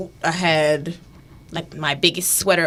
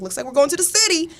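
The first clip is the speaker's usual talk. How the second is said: teasing reply; 10 semitones higher, faster than usual. Retold or imitated. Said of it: "I was like".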